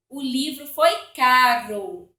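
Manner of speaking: "caro" with a single light tap of the tongue; "caro" with a tapped R. Shown as a demonstration. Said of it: "eu tenho que ler aqui tremido".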